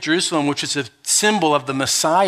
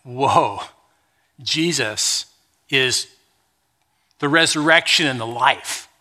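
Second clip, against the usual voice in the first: awed wonder; 4 semitones lower, slower than usual. Retold or imitated. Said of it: "You're like".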